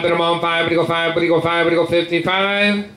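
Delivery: rapid rolling bid chant; auctioneer. Real, not acted. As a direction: rattle off the bids like an auctioneer.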